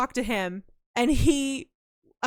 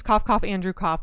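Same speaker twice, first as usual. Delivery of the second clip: fake cough naming; 3 semitones lower, 3 dB louder than usual. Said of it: "I won't name names".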